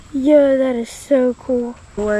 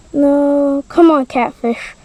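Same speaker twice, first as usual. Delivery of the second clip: urgent cheering; 6 dB louder, slower than usual. Real, not acted. Catfish losing to snake.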